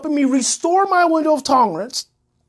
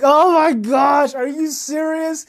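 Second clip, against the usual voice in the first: slow, drawn-out cry of disbelief, higher; stunned, incredulous outburst; shocked disbelief; 5 semitones higher, slower than usual. Retold or imitated. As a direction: react like you can't believe what you just saw. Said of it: "And I'm like".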